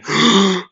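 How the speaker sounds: sharp high intake of breath; acted gasp. Heroes and villains hearing bones crack, gasping. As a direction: gasp in shock.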